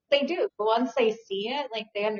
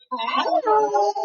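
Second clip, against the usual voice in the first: dad's greeting voice; 11 semitones higher, 4 dB louder than usual. Retold or imitated. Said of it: "My dad's like".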